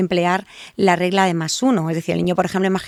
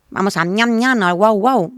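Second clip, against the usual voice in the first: put-on baby talk onomatopoeia; 3 semitones higher, 4 dB louder than usual. Shown as a demonstration. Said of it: "le hablamos con onomatopeyas". (adulto hablando al niño con onomatopeyas infantiles)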